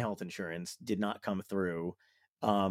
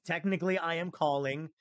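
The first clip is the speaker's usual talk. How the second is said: higher, careful hedging; pointedly evasive, pitched up; sly technicality; 5 semitones higher than usual. Acted. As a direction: stretch it out high, dodging the question. Acted sly evasion to insurer.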